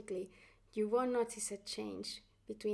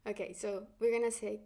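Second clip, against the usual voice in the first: ordinary delivery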